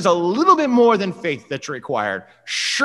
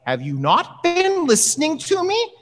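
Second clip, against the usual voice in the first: raised, slowed exasperated Paul; exasperated shout. Retold or imitated. Paul yells at believers who are not listening, exasperated. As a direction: drive it home like a frustrated apostle. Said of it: "Paul screams out saying".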